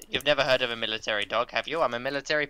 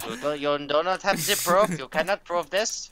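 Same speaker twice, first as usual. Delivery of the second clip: mock German accent, a bit raised; bad German accent; 2 semitones higher than usual. Streamer protesting innocence to co-host in a bad German accent. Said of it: "that's a really bad, insulting German accent".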